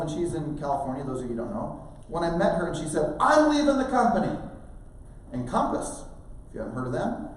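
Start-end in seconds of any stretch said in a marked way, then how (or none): 3.2-4.4 high-pitched quoted declaration; announcing departure. Retold or imitated. Agent telling recruiter she is quitting, high-pitched. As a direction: declare it in a raised, higher voice.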